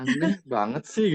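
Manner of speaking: light mock surprise; mock puzzled remark. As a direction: imitate someone finding it weird. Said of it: "katanya gitu ya".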